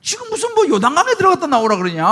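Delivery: a proud general who feels insulted and lets it show; the general fumes over being told to bathe in the river; retold angry complaint. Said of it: "라고 화를 내는 거예요".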